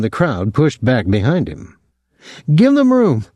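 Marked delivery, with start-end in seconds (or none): 2.5-3.3 high, sustained announcer-like call; professional calling out. A narrator's reading. Claude to the crowd round the fight, professional call. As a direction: call it out like a ringmaster, pitched way up. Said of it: "Claude called professionally".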